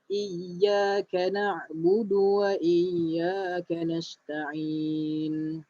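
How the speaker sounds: slow, drawn-out tajwid recitation; slow Quran recitation. Shown as a demonstration. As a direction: recite it slowly for students to follow. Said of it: "ayat nombor lima". (bacaan tajwid perlahan)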